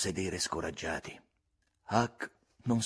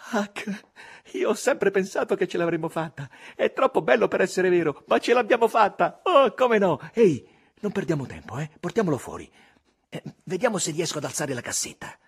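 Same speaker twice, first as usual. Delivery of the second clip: put-on high, loud, breathless boy's delight; a boy who can't believe it came true; thrilled Tom; 9 semitones higher, 6 dB louder than usual. A narrator's reading. Tom to Huck over the gold: thrilled and hurried.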